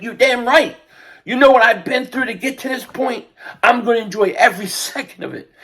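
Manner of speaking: defiant, fired-up fan; emotional outburst. Real, not acted. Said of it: "I'm getting all emotional".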